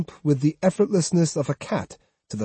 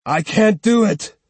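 louder, booming refusal; thunderous voice; 8 semitones higher, 5 dB louder than usual. Acted. Swordsman refusing to fight, booming voice. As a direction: boom it out. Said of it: "he spoke at last in a thunderous voice".

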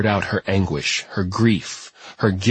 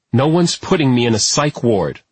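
angry; 4 semitones higher, 3 dB louder than usual. Acted. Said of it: "getting to her feet angrily".

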